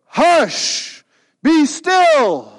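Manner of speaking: high, loud, firm command to the wind; Jesus calming the storm. Retold or imitated. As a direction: hush the storm with calm authority. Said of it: "he gets up and he goes".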